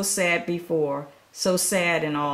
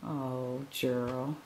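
pitying; 3 semitones lower than usual. Real, not acted. Reader pities sad Gerald.

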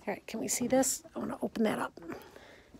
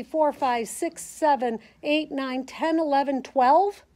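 normal talking voice

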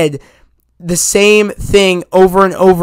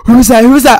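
excited audience; 4 semitones higher, 4 dB louder, faster than usual. Retold or imitated. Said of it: "Everybody in the audience was flipping out".

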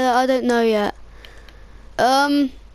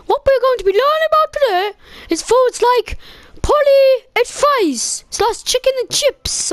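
mock French teacher; 5 semitones higher than usual. Player voices French teacher.

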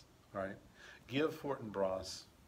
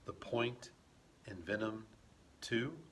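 hushed realization; 3 semitones lower, 7 dB quieter than usual. Acted. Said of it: "Hamlet says".

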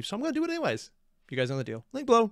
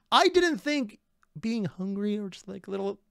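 high-pitched hungry complaint; exasperated whine; 8 semitones higher than usual. Real, not acted. Reactor a little hungry again, exasperated whine. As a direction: plead your case in a high whine.

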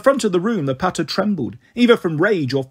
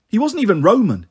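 protesting; 5 semitones higher than usual. Acted. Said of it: "Annabeth protested".

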